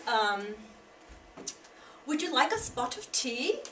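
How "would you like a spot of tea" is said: a light British accent on "Would you like a spot of tea?"; a lightly voiced British lady offering tea; mild British accent, rising at the end. Shown as a demonstration. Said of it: "the Great Britain way of saying that sentence".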